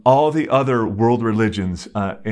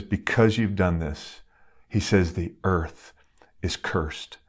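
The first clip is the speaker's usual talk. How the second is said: fading much softer and lower down to cursed; solemn hushed pronouncement; 3 semitones lower, 6 dB quieter than usual. Retold or imitated. Preacher voicing God cursing the earth, hushed and solemn. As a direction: let the curse sink to a hush.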